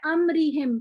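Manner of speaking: अमरीहिम with the मीम stretched, mouth moving on it; wrong take with a moved mouth. Shown as a demonstration. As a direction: say अमरीहिम the students' way, the मीम sounding voweled. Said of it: "जैसे अक्सर students करते हैं".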